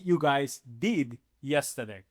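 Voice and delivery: slow, deliberate model phrase. Shown as a demonstration. Teacher reads the positive form slowly to the class. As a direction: lay out each word slowly. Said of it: "The positive form will be".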